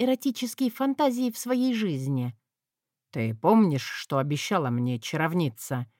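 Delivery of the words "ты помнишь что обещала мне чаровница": low, suddenly stern question. Acted. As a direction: press her sternly. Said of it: "уточнил он внезапно строго".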